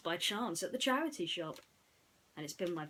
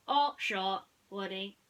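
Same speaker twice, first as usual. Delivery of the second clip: stuck robot voice; 6 dB louder, slower than usual. Acted. Mister Spell glitches while spelling, robotic stutter. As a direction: repeat like a glitching machine.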